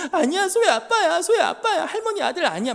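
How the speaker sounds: put-on high, loud child protest; crying little girl. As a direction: wail it like a toddler insisting, half laughing. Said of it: "소혜가 울면서".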